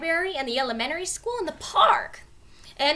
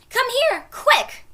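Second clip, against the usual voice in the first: loud high urgent call; 12 semitones higher, 7 dB louder, slower than usual. A narrator's reading. Annie shouting for Jack to come, urgent call. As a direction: hurry him over.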